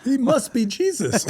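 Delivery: high, amazed gasping "oh"s; excited awe. Retold or imitated. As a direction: gush like you've seen a miracle. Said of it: "They're like".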